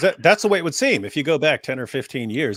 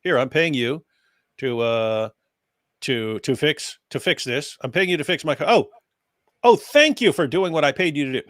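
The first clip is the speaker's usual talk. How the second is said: sarcastic gratitude. Acted. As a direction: act out absurdly over-grateful thanks. Mock customer thanking paid worker.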